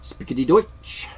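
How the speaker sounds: high, loud mock German accent on Spickety Deutsch. Imitating movie Germans, hammed-up German accent. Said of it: "I don't have a German accent".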